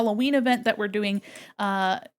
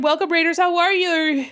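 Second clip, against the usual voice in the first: higher, brighter welcome to arriving raiders; excited greeting; 7 semitones higher, 5 dB louder than usual. Real, not acted. Streamer greeting incoming raiders, excited and higher. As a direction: greet the raid with real excitement. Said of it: "I'm excited".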